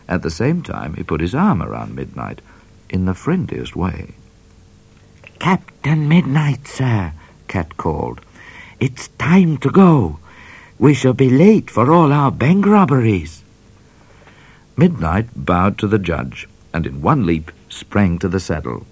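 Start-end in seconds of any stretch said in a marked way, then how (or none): 5.4-13.4 Cat calling. A narrator's reading. Cat calling Midnight away, high and loud. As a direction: call across the clearing.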